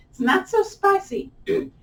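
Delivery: high voice from the intensity; voice going up. Real, not acted. Teacher explaining the stretch's intensity, voice going up. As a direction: let the voice climb with the burn. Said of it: "When my voice goes up".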